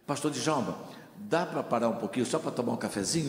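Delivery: soft, polite little offer of coffee, quick. Retold or imitated. Usher offering the visiting pastor a coffee, soft and polite. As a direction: offer the coffee gently and softly.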